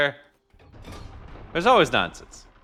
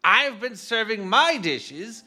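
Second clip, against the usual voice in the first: lofty, self-important gourmet, pitched up; pompous voice; 5 semitones higher than usual. Acted. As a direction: play a haughty chef showing off. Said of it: "He sounds like he would have a pompous voice".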